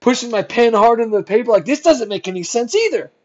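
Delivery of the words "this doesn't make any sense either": mildly exasperated, pitch lifted; acted-out irritated bafflement; angry, sarcastic. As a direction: re-enact muttering at your notes in disbelief, a touch angry. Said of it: "in an angry way and sarcastically".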